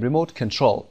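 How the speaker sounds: main stress of "ریموت کنترل" on کنترل; stress on CONTROL. Shown as a demonstration. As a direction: lean on the last syllable of "کنترل". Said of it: "باید روی کنترل بگیم".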